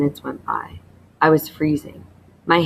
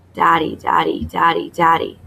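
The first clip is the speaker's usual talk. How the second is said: urgent, half-whispered plea for daddy. A narrator's reading. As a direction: plead for your father in a forceful whisper. Terrified boy calls for his father.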